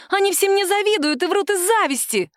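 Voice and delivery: high shrill outburst; shrieking on. A narrator's reading. Woman screams that coworkers envy her. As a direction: keep screaming it.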